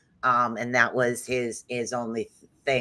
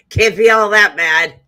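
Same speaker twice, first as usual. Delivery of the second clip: talking through a stiff, sore jaw; barely opening the mouth after surgery; 5 semitones higher, 3 dB louder than usual. Real, not acted. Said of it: "I still can't open my mouth all the way".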